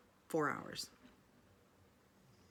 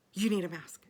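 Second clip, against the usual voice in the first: mildly raised mock yell; imitated yelling; 3 semitones higher, 7 dB louder than usual. Conductor yelling at passenger about a mask, imitated yell. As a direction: imitate a conductor's loud order. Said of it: "the conductor starts yelling at me".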